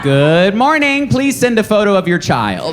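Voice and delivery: slow, overpolite eager request; overly polite. Retold or imitated. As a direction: ask sweetly and too politely. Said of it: "like a very polite pedophile".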